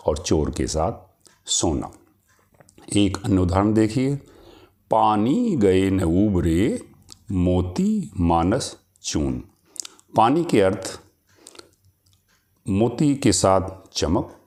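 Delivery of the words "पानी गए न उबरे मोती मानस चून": slow, measured verse recital; poem recitation. Acted. Teacher recites a couplet to students, slow and measured. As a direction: recite the couplet slowly, savouring each word.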